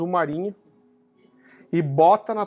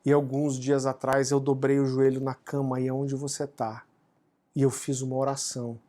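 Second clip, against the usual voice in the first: tearful mother; 5 semitones lower, 4 dB quieter than usual. Retold or imitated. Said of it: "ela chorando".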